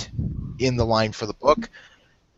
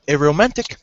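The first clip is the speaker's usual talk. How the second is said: talking through a mouthful of food; mouth full; 3 dB louder than usual. Real, not acted. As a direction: say it around a bite of food. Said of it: "I shouldn't talk with my mouth full".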